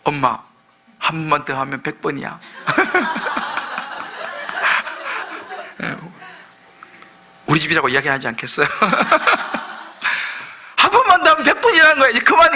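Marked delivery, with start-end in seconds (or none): 0.0-2.4 mock teen line, soft and laughing through it; lightly played child, giggling; laughing child quote. Preacher imitating children to mom, soft and laughing. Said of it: "우리 자녀들 우리 그러는 거예요". 2.7-5.8 laughing. Real, not acted. Laughs at own joke. 10.8-12.5 mock irritated teen, louder and higher; a hint of fed-up kid cutting mom off; annoyed teen. Preacher imitating child annoyed at mom, louder and higher. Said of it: "우리 자녀들 우리 그러는 거예요".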